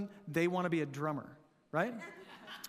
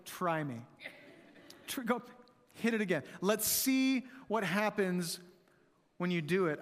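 daring parent threat. Retold or imitated. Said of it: "This is like".

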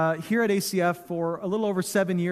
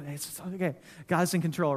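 much softer, pat reassurance; mock soothing; 3 semitones lower, 5 dB quieter than usual. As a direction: hush a friend with an easy platitude. Mocking a friend's pat reassurance.

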